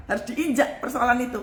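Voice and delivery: ordinary talk, nothing marked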